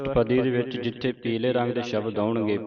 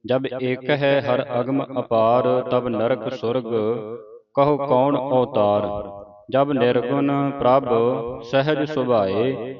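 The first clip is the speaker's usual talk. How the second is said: slow, deliberate recitation of verse; scripture recitation; slower than usual. Shown as a demonstration. Teacher leads the congregation through the verses, slow recitation. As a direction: draw out each phrase, pausing between them.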